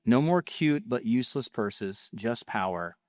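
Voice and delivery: punchy ad copy with falling line endings; ad read. Acted. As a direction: read it as a sales script, pausing between phrases.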